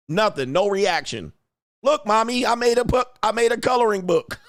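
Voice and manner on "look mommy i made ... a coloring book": put-on kid voice. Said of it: "kids greet mom".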